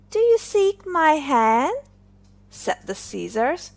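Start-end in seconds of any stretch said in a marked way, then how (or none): 0.1-1.8 mock anger. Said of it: "for she was angry".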